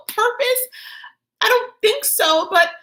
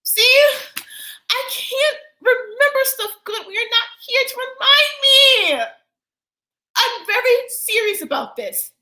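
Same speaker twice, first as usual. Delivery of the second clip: agitated plea; 4 semitones higher, 4 dB louder than usual. Acted. Child's outburst to absent mother.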